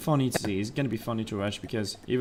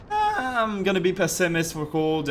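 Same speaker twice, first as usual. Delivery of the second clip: voice cracking; 7 semitones higher, slower than usual. Real, not acted. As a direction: voice cracks mid-sentence. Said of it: "The, the voice crack".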